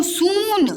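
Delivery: सून with a lengthened oo; wrong long vowel. Shown as a demonstration. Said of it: "ये गलत हो जाएगा".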